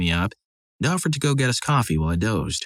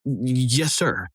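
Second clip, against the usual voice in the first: stammered, a touch higher, a mild frightened squeak; timid squeak; 4 semitones higher, much slower than usual. Retold or imitated. Punk caught facing the big cousin, stammering a mild scared squeak. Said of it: "The only words he managed were a squeak".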